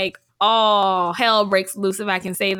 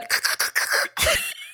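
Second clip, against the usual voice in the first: stuttering throaty clicks in place of a trill; failed tongue-roll attempt; 4 dB quieter than usual. Shown as a demonstration. Co-host who can't roll her tongue tries anyway, sputtering trill. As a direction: try to roll an R and only sputter. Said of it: "I can't roll my tongue".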